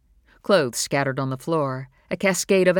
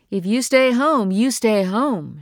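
high, loud stern warning, second half slow; 8 semitones higher, 6 dB louder than usual. Acted. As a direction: lay down the rule firmly. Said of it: "she warned".

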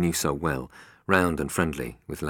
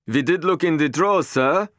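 much higher, louder protest; guard defends search to boss; eager guard; 13 semitones higher, 8 dB louder than usual. A narrator's reading. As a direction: justify yourself to the boss. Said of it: "one of the men said".

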